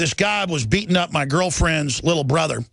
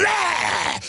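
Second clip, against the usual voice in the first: battle yell; 12 semitones higher than usual. Retold or imitated. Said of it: "And I went".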